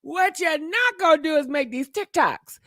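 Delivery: playful shout; teasing shouted warning; mock scolding shout. Real, not acted. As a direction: call them out, half-joking. Repeats line louder, mock scolding.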